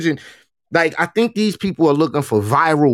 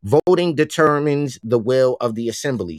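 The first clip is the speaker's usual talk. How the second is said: brisk read-out of a textbook definition, recited quickly; reading a definition aloud. Shown as a demonstration. Cohost reads a definition to the audience, fast and even. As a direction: recite it like reading from a reference page. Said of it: "how's that one?".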